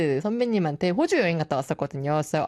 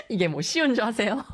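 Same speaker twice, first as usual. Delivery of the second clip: laughing; 3 semitones higher, faster than usual. Real, not acted. Laughing while asking.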